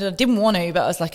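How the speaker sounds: ordinary talk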